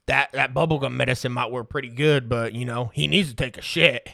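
a hint of dad weighing in, low; low-pitched mimicking of a folksy father; imitated dad. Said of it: "my dad looking at my mom saying".

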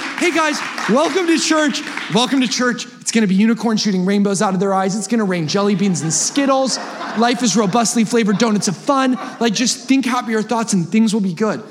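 high, upbeat fake preacher greeting; mock cheery welcome. Preacher mocking an overly cheerful welcome, high and bright. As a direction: sell a sugar-coated church. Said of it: "So I can tell you like".

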